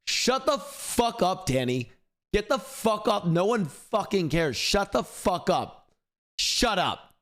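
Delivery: high, slow, hammed-up yelling at a show; mock yelling at the TV. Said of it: "and I'm watching it and I'm like".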